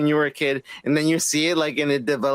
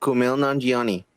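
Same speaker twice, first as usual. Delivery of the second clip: Kumail Nanjiani in an American accent; American-accented name, matter-of-fact; 4 semitones lower than usual. Shown as a demonstration. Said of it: "I'm doing the fucking American accent".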